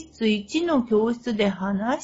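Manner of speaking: high, loud insistent argument; exasperated. Retold or imitated. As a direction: argue it back, exasperated. Heated back-and-forth argument.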